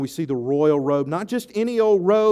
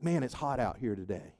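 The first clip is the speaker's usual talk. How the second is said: offhand remark; 6 semitones lower, 11 dB quieter than usual. Acted. Imagined remark through sunglasses.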